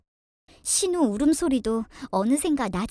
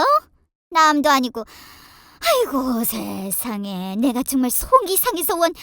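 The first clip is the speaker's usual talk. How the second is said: aggrieved mother-in-law; 5 dB louder than usual. Acted. Mother-in-law complains to daughter-in-law. (속상해 푸념하는 시어머니)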